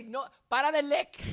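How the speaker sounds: high-pitched, loud command to a pet; dog scolding. Acted. Owner ordering dogs to stop licking, loud high scolding. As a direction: call out sharply to the dog.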